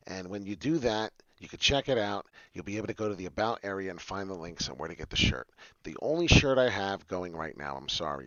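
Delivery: ordinary talk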